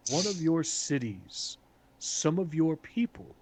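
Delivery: measured, formal address with long deliberate pauses; lightly voiced council speaker. Council speaker warning the assembled nations, lightly acted, measured and formal. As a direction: weigh out each phrase as a solemn pronouncement.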